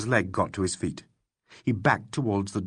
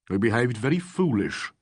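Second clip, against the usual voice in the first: austere. Acted. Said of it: "said Fox austerely".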